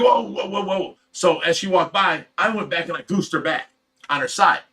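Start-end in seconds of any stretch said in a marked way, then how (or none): 0.0-1.0 startled. Retold or imitated. Getting goosed from behind.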